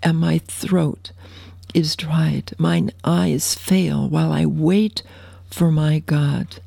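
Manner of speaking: slow, hushed psalm reading; slow reverent scripture recitation. Acted. Reads Psalm slowly, hushed.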